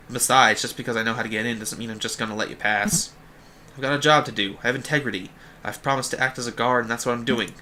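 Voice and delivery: lightly voiced Boston guard; touch of Boston in a stubborn guard; Quark, vaguely Bostonian accent. Guard refusing to let travellers pass, vaguely Bostonian. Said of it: "using, like, a vaguely Bostonian accent for him".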